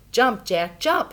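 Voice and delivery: loud, rising urgent holler. A narrator's reading. Mother hollering at Jack to jump, loud. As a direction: holler it up at him. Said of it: "she hollered".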